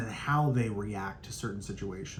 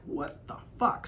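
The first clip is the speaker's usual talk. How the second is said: breathy whispered what the fuck; whispered shock; 4 semitones higher, 5 dB quieter, slower than usual. Retold or imitated. Seeing gum in the kid's hair, whispered shock. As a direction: mutter it under your breath in disbelief.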